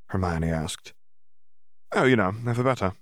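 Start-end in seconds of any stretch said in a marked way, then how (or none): 1.9-2.9 forced brightness. Acted. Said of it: "fixed a smile onto his face".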